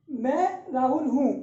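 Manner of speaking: slow, deliberate मैं राहुल हूँ; slow model reading. Shown as a demonstration. Teacher modelling the right reading for students, slow and clear. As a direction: read it slowly for the class to copy. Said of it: "तो आपको ऐसे पढ़ना है".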